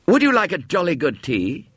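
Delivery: a keen schoolboy hailing a stranger; eager boy. Acted.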